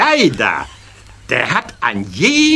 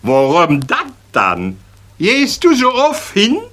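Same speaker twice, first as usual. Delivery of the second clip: astonished; 8 semitones higher than usual. Acted. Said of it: "erstaunt fragt der Schäl".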